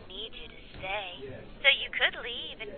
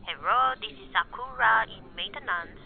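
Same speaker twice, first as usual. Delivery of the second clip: fake Japanese accent. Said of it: "the worst Spanish accent I've ever heard".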